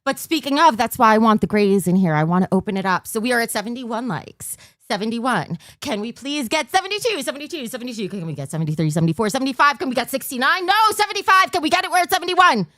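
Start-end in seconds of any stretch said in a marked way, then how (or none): 3.1-12.7 rapid auction calling, counting up bids; auctioneer voice. Pretend. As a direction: rattle off the numbers like an auctioneer. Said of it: "I'm doing my auctioneer voice".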